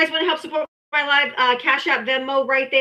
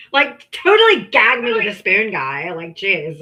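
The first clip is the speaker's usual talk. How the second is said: put-on valley girl voice; 5 semitones lower than usual. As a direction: play a bubbly valley girl. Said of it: "talk like a valley girl".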